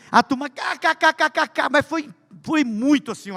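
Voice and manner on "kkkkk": high imitated burst of laughter; mock class laughter. Pastor imitating the whole class cracking up.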